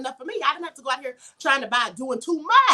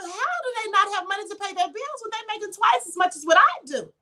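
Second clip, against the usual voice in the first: raised, puzzled inner voice; baffled wondering; 5 semitones higher than usual. Retold or imitated. Asking herself why richer friends can't pay bills, baffled. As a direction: sound honestly baffled at them. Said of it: "I used to say to myself".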